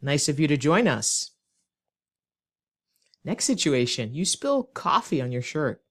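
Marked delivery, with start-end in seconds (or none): 0.0-1.3 pointed mock welcome; sarcastic. Shown as a demonstration. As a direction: greet a latecomer with sarcasm. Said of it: "say the sentence sarcastically".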